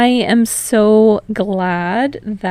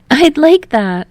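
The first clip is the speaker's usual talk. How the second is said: higher Hinata, soft and thoughtful; gently, a little wistful; soft thoughtful Hinata agreeing; 8 semitones higher, 7 dB louder, slower than usual. Acted. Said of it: "voice sounding soft and thoughtful".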